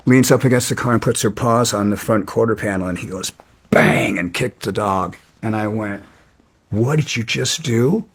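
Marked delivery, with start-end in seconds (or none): 3.7-4.2 sudden punched-out sound word; imitated bang. Imitates the kick on the dog. 6.7-8.0 incredulous question rising at the end; retold confrontation. Retold angry confrontation, first take.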